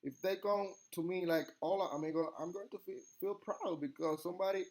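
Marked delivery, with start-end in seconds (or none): 1.6-2.3 lightly imitated American-accented Spanish. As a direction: mimic an American trying Spanish. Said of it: "an American person".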